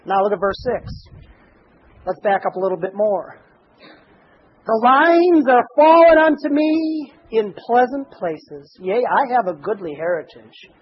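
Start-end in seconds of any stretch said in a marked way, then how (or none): 4.7-10.7 slow, lifted scripture read. Shown as a demonstration. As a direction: read it out like holy writ. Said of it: "Now you read that".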